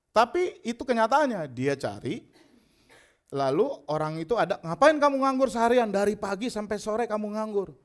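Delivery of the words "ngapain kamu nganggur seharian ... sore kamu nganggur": higher-pitched, louder challenge easing off; acted-out chiding question; challenging question. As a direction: quiz the idle man in disbelief. Master challenges idle man in parable.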